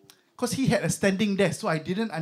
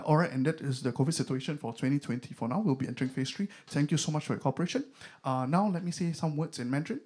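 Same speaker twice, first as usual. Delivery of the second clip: imitating minister; 4 semitones lower, 5 dB quieter than usual. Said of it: "a minister just goes to".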